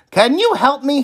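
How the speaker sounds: pleading Oscar. A narrator's reading. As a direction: beg the wise man for help. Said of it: "he said".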